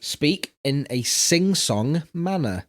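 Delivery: "sing-song" set apart slowly; air-quoted "sing-song". Shown as a demonstration. Co-host reading step two, quoting "sing-song". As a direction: read slowly, putting quote marks round "sing-song". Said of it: "I did air quotes around sing-song".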